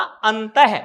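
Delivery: अंतः ending in an audible "ha"; voiced-out visarga. Shown as a demonstration. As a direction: sound the final h syllable of अंतः. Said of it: "इसका उच्चारण करोगे तब क्या होगा?".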